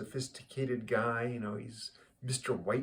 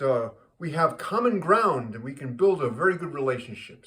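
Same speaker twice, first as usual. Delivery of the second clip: loud, emphatic mock-delighted statesman; pleased Netanyahu; 7 dB louder than usual. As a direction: play up the pleasure, stretching key words. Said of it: "Netanyahu notices and he says".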